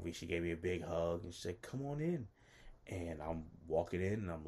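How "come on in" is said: imitating a welcoming woman, pitched high; high, friendly hostess imitation; warm, friendly invitation. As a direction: invite them in with a high lilt. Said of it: "she was so warm and friendly".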